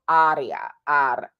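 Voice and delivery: "aria" with one light flipped R; Italian R. Shown as a demonstration. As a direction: flip the R of "aria" at the front of the mouth. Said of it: "The Italian R is in the front".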